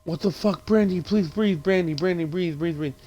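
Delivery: high, urgent repeated pleading; mock panicked pleading. Friends beg Brandy to breathe, mock panicked pleading.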